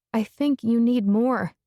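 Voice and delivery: leaning hard on "think"; emphatic. A narrator's reading. Lena insisting to Jimmy, emphatic. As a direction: press each word firmly. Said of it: "my voice emphatic".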